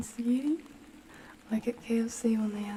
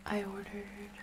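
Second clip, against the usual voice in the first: whisper; 6 dB quieter, slower than usual. Real, not acted.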